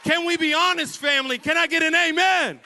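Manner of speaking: loud, high preaching cry; preaching shout. Real, not acted. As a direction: call the family to honesty, full voice. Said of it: "preaching at full force".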